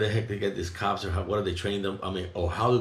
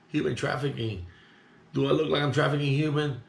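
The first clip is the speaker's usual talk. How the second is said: higher-pitched disbelieving echo; incredulous retort; 5 semitones higher than usual. Retold or imitated. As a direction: question the accusation in retold disbelief, pitch climbing. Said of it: "I'm looking at her like".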